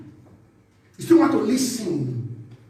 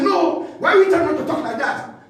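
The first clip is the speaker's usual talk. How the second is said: defiant retort; 4 semitones higher than usual. Acted. Acting proud person rejecting advice.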